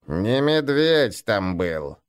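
put-on slow creaking old voice; creaky old man. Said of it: "проскрипел старый гнуп".

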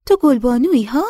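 put-on high, loud, eager voice of an older village woman. A narrator's reading. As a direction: greet her like a long-lost daughter. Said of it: "با اشتیاق نگاهش کرد و گفت".

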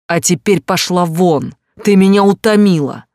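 loud, enraged shout right in her face; furious yell. Acted. Husband throwing his wife out, yelling furiously. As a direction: roar it at her, fed up and contemptuous. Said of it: "Последние слова он проорал мне в лицо".

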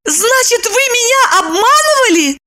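very high angry shout; Lipochka shouting. A narrator's reading. Lipochka furious at Roman. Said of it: "закричала она".

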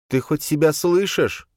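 put-on high, slow, openly disappointed girl. Boya reproaching Khranka, high and slow. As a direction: let the letdown show in every word. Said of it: "не скрывала разочарования".

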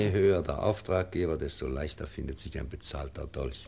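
loud, fast, bitter outburst; bitter accusation. Acted. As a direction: hurl the accusation at him. Professor accuses the crown.

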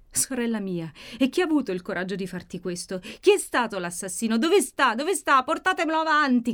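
rising to a loud, high-pitched cry. A narrator's reading. Maddalena demands her sister's attacker be brought, crying out. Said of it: "gridava Maddalena".

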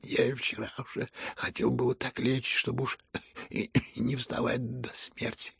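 soft, hushed, exhausted speech; faint, weary voice. Acted. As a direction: barely summon the breath to speak. Слабый Ипполит. (слабый, усталый полушёпот)

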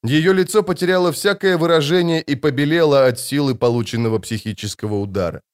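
plain reading voice

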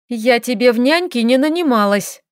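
grumbling complaint. Acted. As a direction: grumble it, put out. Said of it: "Пробурчала она".

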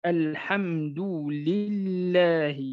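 الحمد لله slow, lam kept light; لام مرققة; thin lam. Shown as a demonstration. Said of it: "وترقق إذا سبقت بكسرة".

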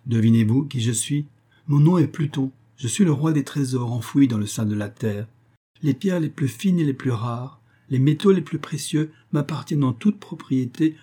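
lightly voiced proud underworld king; a hint of a boastful king; king Pluto voice. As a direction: coax her with grand promises. Pluto speaking to Proserpine.

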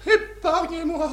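beg, then cry out; pleading to cry. Acted. La reine supplie puis crie. (supplication qui monte jusqu'au cri)

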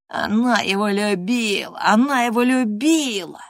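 lightly sung mocking chant; mocking singsong. Linton mockingly chanting at Catherine, sing-song. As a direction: taunt her in a teasing singsong. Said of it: "издевательски пропел Линтон".

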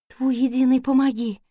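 ordinary delivery

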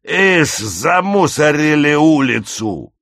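high, loud, drawn-out scolding; bullying leader's stretched-out holler; ringleader's shout. Acted. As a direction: yell the rebuke over the din. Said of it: "пробился голос главаря".

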